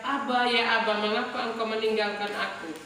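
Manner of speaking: a restrained mock shout of anguish; retold cry of Jesus. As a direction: cry out to a father, half-voiced, then ease off. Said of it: "dia teriak".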